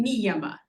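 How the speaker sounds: "niyama" stressed on the opening "ni"; stress on first syllable. Shown as a demonstration. Teacher demonstrating three short syllables, front-stressed "niyama". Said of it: "emphasis at the beginning".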